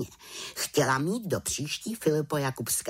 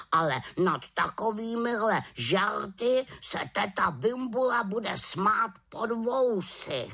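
raven voice; 10 semitones higher than usual. Acted. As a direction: warn her gravely. Raven warns the witch. (havran varuje)

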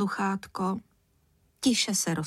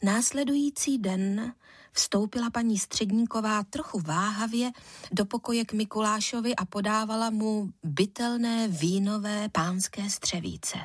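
usual speaking voice

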